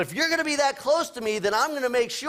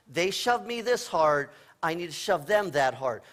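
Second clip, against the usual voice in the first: mock reasonable child; 5 semitones lower than usual.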